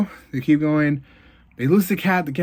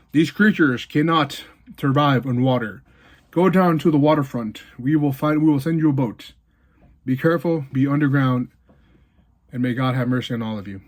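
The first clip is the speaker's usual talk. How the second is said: announcement. Acted. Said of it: "they're making an announcement".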